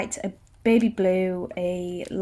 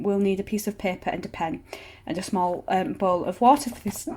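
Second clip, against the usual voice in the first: hiccups. Real, not acted. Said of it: "Sorry, I've got hiccups really bad".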